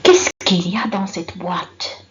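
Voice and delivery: loud example question. Shown as a demonstration. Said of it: "je pose la question".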